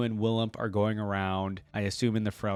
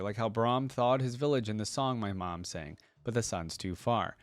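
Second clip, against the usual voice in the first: storyteller's reading voice, even and unhurried; reading a story to viewers; story narration. A narrator's reading. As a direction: read it like a bedtime tale. Reads interactive story aloud.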